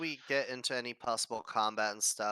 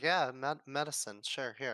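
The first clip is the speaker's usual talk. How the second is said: put-on careless voice, slower pace. Voicing Priscilla handing over medicine, careless. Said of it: "Priscilla just doesn't seem to care".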